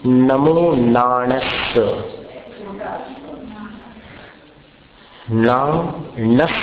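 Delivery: नमो नाणस्स said very slowly, with a half स and then a full स; slow teaching recitation of नाणस्स; careful pronunciation. Shown as a demonstration. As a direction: spell out नाणस्स syllable by syllable, holding the double स. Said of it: "कैसा उच्चारण हमारा देखिए आप".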